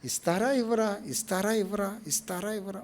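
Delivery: quiet wavering question, fading with each repeat; voiced doubt. Preacher voicing a believer's doubt over a promise, doubtful. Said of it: "ఒక సందేహము".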